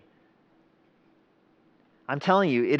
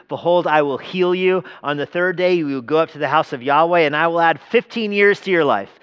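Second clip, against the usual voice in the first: raised, emphatic scripture declaration; Yahweh's proclamation; 3 semitones higher, 4 dB louder than usual. Acted. God's message for the sick king, declared with authority. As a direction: declare it firmly as a divine promise. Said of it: "Yahweh's voice comes to him and says".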